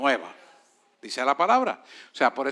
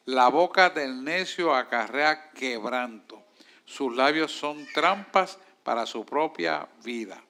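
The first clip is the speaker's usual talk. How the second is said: scripture reading; 2 semitones lower, slower than usual. Real, not acted. Reads scripture aloud.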